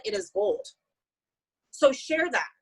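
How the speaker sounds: rising high on gold; excited. Real, not acted. Telling her team the products are gold, pitch jumping high. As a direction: lift the last word up bright and high.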